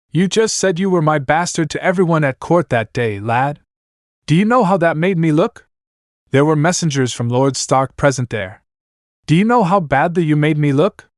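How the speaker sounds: lightly voiced reproachful old lord; stern lord voice. Lord scolds his bastard son.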